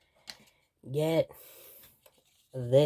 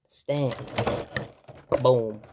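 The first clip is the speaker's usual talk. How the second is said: dramatic announcement; 4 dB louder than usual. Pretend. Dramatic JoJo stand summon.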